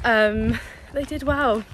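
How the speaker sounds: talking while walking on bumpy ground; on a bumpy road. Real, not acted. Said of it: "it's a bit bumpy when we're walking".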